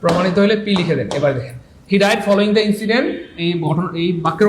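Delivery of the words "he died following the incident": the English sentence read out slowly, word by word; slow dictation. Shown as a demonstration. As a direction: read it out clearly for the class. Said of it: "teacher reads example slowly". (ধীরে ধীরে উচ্চারণ করে পড়া)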